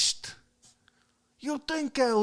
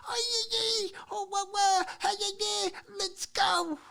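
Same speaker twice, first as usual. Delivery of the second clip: high, hammed-up pom-pom cheer; mock cheerleader chant; 10 semitones higher, 4 dB quieter than usual. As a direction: bounce it like a cheerleader at a track meet.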